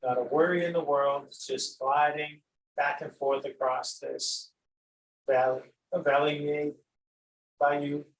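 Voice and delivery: unhurried meditation guide with long pauses; guided meditation. Acted. Teacher guiding listeners to glide over an imagined valley, unhurried meditation voice. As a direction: lead them gently through the imagery, leaving space between phrases.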